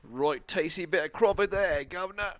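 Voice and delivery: light London Cockney put-on; hint of a Cockney accent. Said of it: "I'll do Cockney".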